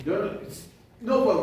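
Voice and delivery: normal talking voice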